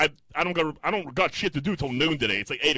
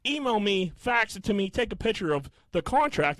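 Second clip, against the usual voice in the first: higher-pitched, exasperated list; insistent demand; 8 semitones higher than usual. Retold or imitated. Caller demanding proof from billing rep, insistent. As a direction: rattle off demands, fed up.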